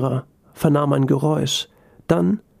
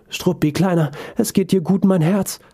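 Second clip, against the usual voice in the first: higher, tender coo to a little dog; tender fussing; 4 semitones higher than usual. Acted. Boss comforting her dog after the fall, tender fussing. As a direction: soothe your pet with a lifted, doting voice.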